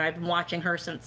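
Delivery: normal talking voice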